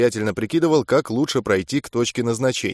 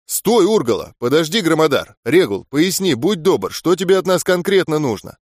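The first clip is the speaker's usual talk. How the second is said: urgent call; 3 semitones higher than usual. Acted. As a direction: stop the fight, calling out firmly. Stepping between fighters, calling out.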